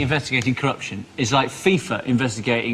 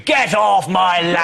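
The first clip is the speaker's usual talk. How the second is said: angry farmer shout; 4 semitones higher, 5 dB louder, much slower than usual. Pretend. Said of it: "with the shotgun going".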